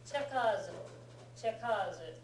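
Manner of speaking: chekazu with the stress moved onto the first syllable, che; pronunciation demo. Shown as a demonstration. Teacher shows a student where the katakana stress lands in chekazu. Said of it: "Without the small two there, it goes to".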